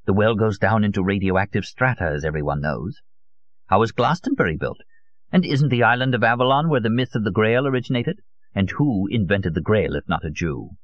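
lightly voiced, insistent old man; obsessive old conspiracist. Old Solon argues to his visitor about the Grail, lightly voiced zealot. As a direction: press the point with rhetorical questions.

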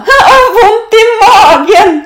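high, loud, stretched wail; groaning with laughter. A narrator's reading. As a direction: wail it as laughter hurts your belly. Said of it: "stønner Emma". (stønnende, lys latterstemme)

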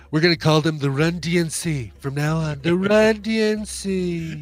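a hint of smug leader talking down; condescending voice. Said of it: "that crappy, condescending, uh, voice".

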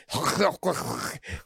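guttural throat noises imitating spoken Dutch; comic imitation of harsh Dutch consonants; mock Dutch gibberish. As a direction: make throaty fake-Dutch sounds. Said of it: "she, like, speaks Dutch".

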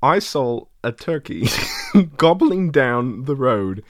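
amateur British actor impression, drawn out at the end; Michael Caine. Impressionist telling a turkey story, attempted British accent. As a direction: try a measured British storytelling voice. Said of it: "Michael Caine".

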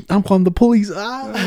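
high, loud panicked mom impression; mocking mom voice. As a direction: play the freaked-out mom calling cops. Mom voiced in retold story.

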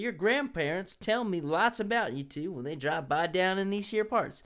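put-on light Southern redneck accent; a hint of a Southern redneck accent. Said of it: "I'm, like, rednecking out here".

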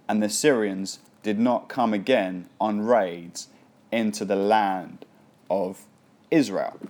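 steady, measured Bible reading voice; scripture reading. Acted. Pastor reading scripture aloud to church, measured. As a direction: read the passage to the congregation.

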